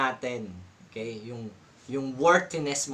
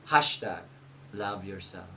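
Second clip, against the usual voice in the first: mock hashtag; 6 semitones lower, 5 dB quieter than usual. Mocking hashtag third time.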